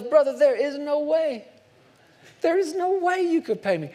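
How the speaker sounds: high, laughing master's reply; a master chuckling at the impossible promise; amused master. Acted. Master to kneeling servant, high and amused.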